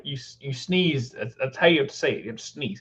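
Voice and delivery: lightly imitated Scottish accent; a hint of a Scot explaining; Craig Ferguson's Scottish accent. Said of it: "Scottish guy. He was just like".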